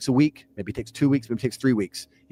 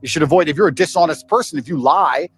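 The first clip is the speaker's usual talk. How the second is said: loud preachy lecture; 2 semitones higher, 6 dB louder than usual. Real, not acted. Preaching about honesty to camera.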